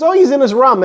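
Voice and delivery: casual regional "rum" with the vowel of thumb; room said as "rum". Retold or imitated. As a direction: say "rum" with a short uh, meaning room. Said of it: "You mean room, right?".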